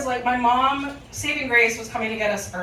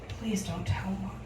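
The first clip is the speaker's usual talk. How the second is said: silent plea; 3 semitones lower, 7 dB quieter than usual. Retold or imitated. Sister's silent plea by eyes.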